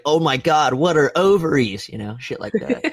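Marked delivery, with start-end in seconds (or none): 0.0-1.9 high, giddy wonder; excited kids. Retold or imitated. Boys puzzling over ovaries, high and giddy. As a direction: ask like an awed schoolboy. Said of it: "we're like".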